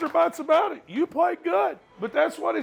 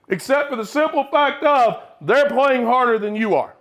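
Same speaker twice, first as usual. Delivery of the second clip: angry scolding; 2 semitones lower than usual. Real, not acted. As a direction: tear into the team. Coach scolding team at halftime.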